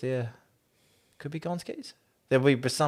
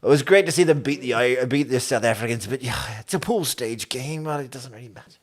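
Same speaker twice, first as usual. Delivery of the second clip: put-on Irish accent. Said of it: "Irish accent's getting worse".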